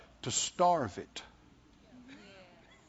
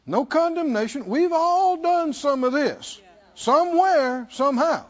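preaching build; 9 semitones higher, 4 dB louder than usual. Real, not acted. Preacher rises to reassure.

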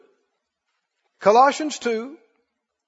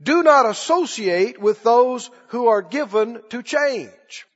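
"not" pushed in "Do not associate"; slow, stressed repeat. Shown as a demonstration. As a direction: weigh each word, hit "not". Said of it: "Did you hear that?".

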